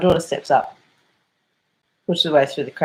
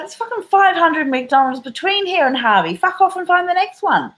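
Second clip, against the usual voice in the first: mock daughter laying into her; imitating daughter; 11 semitones higher than usual. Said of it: "my daughter's like".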